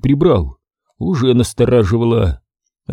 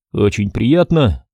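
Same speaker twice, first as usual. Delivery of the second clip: любезно; 2 semitones lower, slower than usual. Acted. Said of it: "заверил я её".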